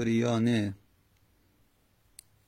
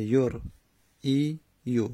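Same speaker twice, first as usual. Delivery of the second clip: slow drawn-out word; much slower than usual. Shown as a demonstration.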